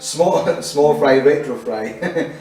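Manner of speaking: slow, careful tongue twister. Shown as a demonstration. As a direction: sound out each word slowly. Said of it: "if you can say it without stumbling".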